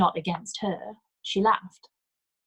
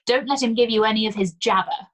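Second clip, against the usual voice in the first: put-on approving old woman; 3 semitones higher, 7 dB louder than usual. A narrator's reading. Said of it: "said Armand approvingly".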